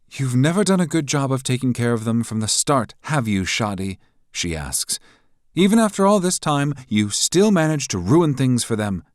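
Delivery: high, loud, taunting woman's voice; mocking rival. A narrator's reading. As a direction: needle him with scorn.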